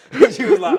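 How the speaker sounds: high laughing narration. Real, not acted. Telling the host what happened, still laughing. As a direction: still giggling as he speaks.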